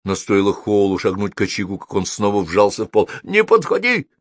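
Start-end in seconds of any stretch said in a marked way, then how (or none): 3.2-4.1 high, alarmed fire-demon warning; hissing. A narrator's reading. Fire demon shrinks from wet wizard, hissing warning. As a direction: warn him off with a touch of hiss. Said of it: "зашипел он".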